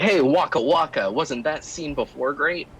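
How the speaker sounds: bright, hammy comic-relief voice; hammy character actor. Retold or imitated. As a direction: play it up like a ham actor. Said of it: "just sort of like a character actor is like".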